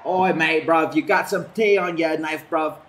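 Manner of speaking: hammed-up British accent; British impression. Gamer doing his best Brit asking about tea, mock British accent. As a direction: put on a mock British lad's voice. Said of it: "My best British impression".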